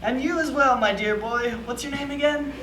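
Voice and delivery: lightly voiced elderly man; a cheerful old grandpa. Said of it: "an elderly grandpa voice".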